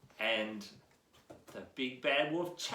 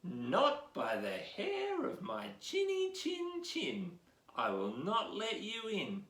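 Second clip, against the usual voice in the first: little pig; 3 semitones higher than usual. Acted. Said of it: "the little pig said".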